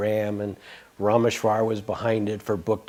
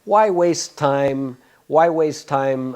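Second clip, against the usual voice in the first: slow reading; 4 semitones higher, 4 dB louder, much slower than usual. Retold or imitated. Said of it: "he wrote back this little short paragraph".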